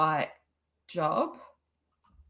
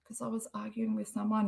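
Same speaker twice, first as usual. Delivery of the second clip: whispering; 6 dB quieter, faster than usual. Real, not acted. Aside while recalling a story.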